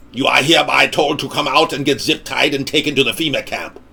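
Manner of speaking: monotone robotic police order; robot cop. Pretend. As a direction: announce it like a machine. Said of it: "a cyber cop come to your door and say".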